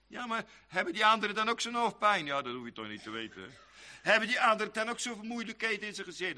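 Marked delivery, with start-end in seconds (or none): 2.3-3.5 quiet, quick shrug of a reply; a soft, offhand "never mind that"; dismissive brush-off. Retold or imitated. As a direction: wave the question away softly and quickly. Dismissive reply to imagined objection.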